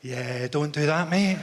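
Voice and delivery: slow, lightly voiced voice of reason; little inner voice. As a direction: sober inner voice talking you out of it, unhurried. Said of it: "a little voice comes on in your head".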